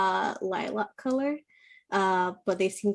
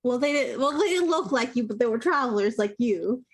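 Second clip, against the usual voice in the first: higher, quick, defensive goblin; wary goblin; 4 semitones higher, faster than usual. Acted. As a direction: talk fast and guarded like a nervous goblin. Goblin answers the party.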